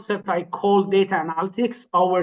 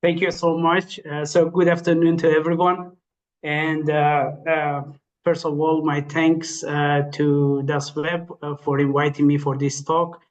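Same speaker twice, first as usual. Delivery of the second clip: tired voice. Real, not acted. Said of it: "so it is a little bit tired voice".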